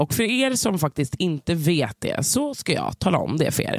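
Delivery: upbeat sponsor read. Acted. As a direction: sell the service like a podcast ad. Reads the sponsor message.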